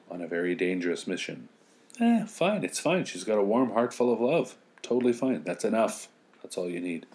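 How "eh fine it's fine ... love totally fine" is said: sarcastic. Real, not acted. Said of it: "Okay, seriously?".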